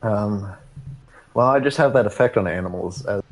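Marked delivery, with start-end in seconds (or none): 1.3-3.0 hammy mock Indian accent; bad Indian accent. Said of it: "a really, really bad Indian accent".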